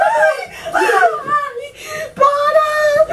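frightened cry of stop; real scared scream. Real, not acted. Wife scared awake by prank.

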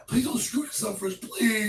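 high-pitched plea; pleading. Real, not acted. Begging partner not to ruin it.

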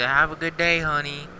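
a hint of a sickly sweet farewell; mock sweet send-off. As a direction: coo it like a doting aunt. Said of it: "kiss him on the cheek and say".

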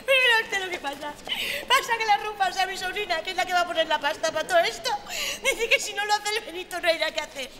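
high-pitched, rattled-off grievance; indignant explanation. Acted. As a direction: fire it off and storm away. Client explains indignantly and storms off.

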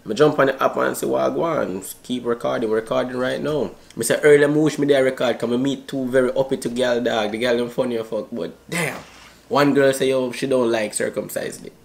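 put-on Jamaican patois accent. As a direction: chat in a fake Jamaican accent. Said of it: "my Jamaican accent".

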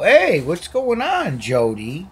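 sing-song at the cats; high pet talk. Real, not acted. Talking to fighting cats.

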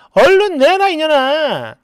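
slow, forceful order; acted angry demand. Friend orders her to hand over money, angry. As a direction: demand it crossly, drawing out the words.

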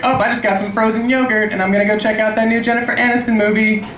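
high, chirpy mock voice; mocking inane poster. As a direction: imitate someone gushing over trivial plans. Mocking inane Facebook status posts.

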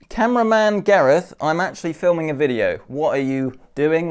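hammy presenter voice; overplayed showman delivery; acting voice. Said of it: "putting on your, your acting voice".

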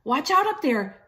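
mock alarmed shout up to Pig; Trevor crying out. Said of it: "good Trevor did cry".

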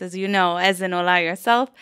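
normal talking voice

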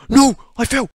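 high, loud cry of dismay; dismayed yell. Real, not acted. Player falling in the flood escape game, dismayed yell. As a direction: yelp it out in sudden dismay. Falls during the obby.

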